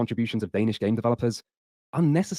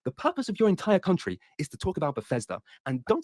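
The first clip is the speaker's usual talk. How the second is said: high-pitched put-on voice; mocking imitation; 7 semitones higher than usual. Mocking Kritosis over Bethesda, put-on high voice. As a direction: imitate the opponent with a changed, higher voice. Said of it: "like, his impression of you? ... his voice has changed".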